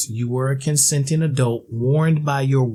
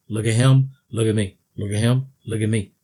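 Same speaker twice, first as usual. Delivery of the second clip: commercial parody; faster than usual. Retold or imitated. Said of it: "Just like that commercial".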